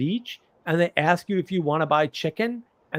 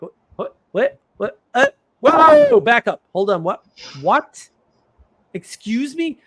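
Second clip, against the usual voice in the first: shocked disbelief; 7 semitones higher, 7 dB louder than usual. Retold or imitated. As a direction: voice leaps very high in stunned disbelief. Retelling shock at friend's story.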